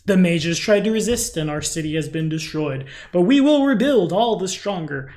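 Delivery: official proclamation. Retold or imitated. Quoting an official city proclamation.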